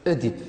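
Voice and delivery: Oedipe starting with a rounded "eu"; accepted pronunciation. Shown as a demonstration. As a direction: say Oedipe as "eu-dipe". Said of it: "on accepte Oedipe".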